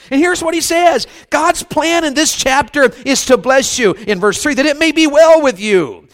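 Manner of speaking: rising pulpit exhortation; fervent preaching. Real, not acted. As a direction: drive each promise home to the congregation. Preacher builds to full force.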